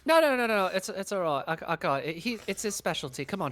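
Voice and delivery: high loud flustered no; flustered protest. Acted. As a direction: wave off the offer fast. Hastily refuses other help.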